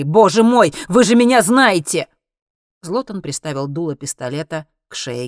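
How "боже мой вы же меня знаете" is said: loud, higher-pitched exasperated appeal; blurted protest. A narrator's reading. Henry pleads with comrades who suspect him, loud protest. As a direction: burst out, appealing to men who know you. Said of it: "выпалил Генри".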